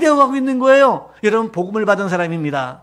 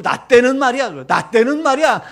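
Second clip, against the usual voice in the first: put-on old-timer lecturing; 4 dB louder than usual. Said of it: "그러니까 어른들".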